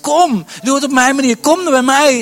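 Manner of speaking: the Holy Spirit calling loudly to come. Acted. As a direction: call them forward with full force. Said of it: "die zegt".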